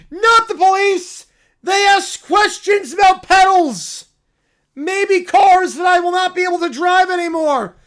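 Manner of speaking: a cub thrilled by the news; excited little bear. Acted. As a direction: squeal it like an overjoyed cub. Bear panicking.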